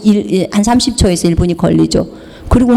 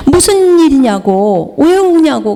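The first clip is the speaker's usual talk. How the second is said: mildly urgent, raised-pitch questioning; puzzled questioning; 4 semitones higher, slower than usual. Retold or imitated. Retelling asking a wailing woman why she cries, puzzled. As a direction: draw out the question in concern.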